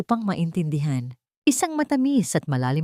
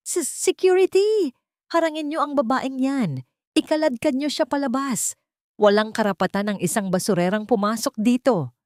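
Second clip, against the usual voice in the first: high, shaky panicked yell at the guards; a panicking groom shouting at hotel security; 7 semitones higher than usual. A narrator's reading. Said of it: "Sigaw ni Adriel".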